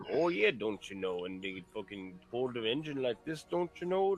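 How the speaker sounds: lightly imitating a Yooper fisherman's "don't you know"; a mock Minnesota-Wisconsin lilt, tossed off; understated Upper Peninsula accent impression; Upper Midwest accent. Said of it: "I have an uncle that talks that way".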